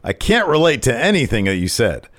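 mock-haughty wrestler voice; Santos. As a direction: boast like a wrestling champion. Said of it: "he says".

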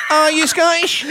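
loud, high-pitched retold shout. Comedian acting out a hotel exchange, high shout. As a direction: shout it high through laughter.

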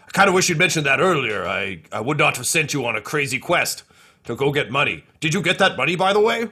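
flustered leader of a falling army; Two Two Cups fretting. Acted. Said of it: "and he says".

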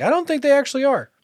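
doctor voice. Retold or imitated. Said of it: "And he's like".

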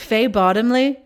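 high, loud British aristocrat impression; Downton Abbey British accent. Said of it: "sound like a, a character from Downton Abbey".

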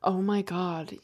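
put-on low, soft American accent. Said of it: "you went American".

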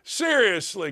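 ordinary delivery

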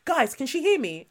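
mild mock bewilderment; imitated caught-out query; stunned shock. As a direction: ask the room as if you cannot believe it. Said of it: "It was the shock".

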